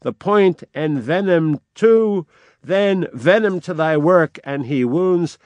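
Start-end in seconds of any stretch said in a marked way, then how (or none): 0.0-4.4 raised, higher furious cry, slowing; fury. Acted. Hamlet rounding on the king in fury, raised voice. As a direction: hurl it out in a rage. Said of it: "And Hamlet cries out in fury".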